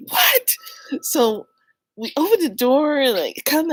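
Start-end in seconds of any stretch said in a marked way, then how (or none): 0.1-0.5 high what. Retold or imitated. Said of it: "I'm like".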